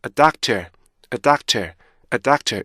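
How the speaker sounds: "a doctor" with a clean break before doctor; cut apart. Shown as a demonstration. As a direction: chop "a doctor" in two. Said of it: "끊어줘야 되는 거죠".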